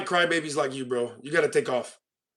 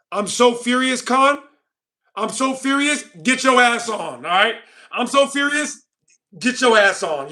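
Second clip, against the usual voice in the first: higher-pitched, hammed-up outrage; mock fury; 4 semitones higher, slower than usual. Streamer dismissing Khan, sarcastic mock fury. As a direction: play at being furious, sarcastically. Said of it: "let me show you how mad I truly am".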